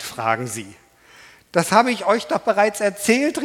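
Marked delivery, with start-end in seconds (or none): 1.5-3.4 the healed man calls out, louder; calling out. Acted. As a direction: call it out at the judges. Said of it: "rief der Mann". (der Geheilte ruft laut und empört)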